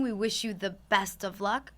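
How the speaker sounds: low, soft and breathy; sexy voice. Shown as a demonstration. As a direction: purr it out smoothly. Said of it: "I think I have a sexy voice".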